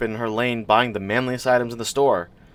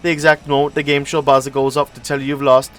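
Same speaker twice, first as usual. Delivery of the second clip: rambling stranger; 3 semitones higher than usual. Acted. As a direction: talk on and on like a know-it-all. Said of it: "the bastard just wouldn't stop talking".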